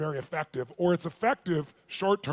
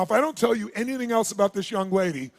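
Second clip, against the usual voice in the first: ordinary delivery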